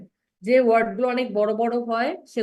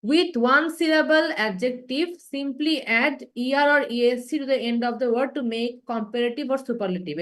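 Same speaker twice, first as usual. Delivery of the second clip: slow, deliberate reading of the rule; slow reading aloud; much slower than usual. Shown as a demonstration. Teacher reads rule to class, slow and deliberate. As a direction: read the English rule out slowly. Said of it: "দেখেন".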